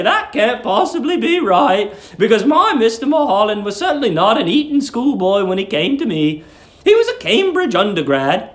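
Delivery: put-on high, fussy voice of a sweet old landlady. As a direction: coo it like a doting old landlady.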